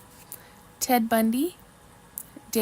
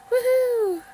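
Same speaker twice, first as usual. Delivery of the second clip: high, loud celebratory whoop; excited cheer; 13 semitones higher, 8 dB louder than usual. Real, not acted. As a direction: cheer it out at the top of your voice. Cheering Megan's correct answer.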